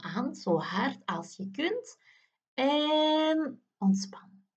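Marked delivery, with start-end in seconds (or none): 2.5-4.5 slow breathy whisper; whispered release. Acted. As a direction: breathe the word out slowly. Release cue after tensing.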